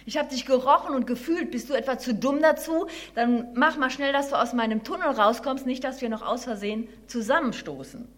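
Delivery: lightly voiced annoyed mole; grumpy mole. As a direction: hurry the intruder out, mildly cross.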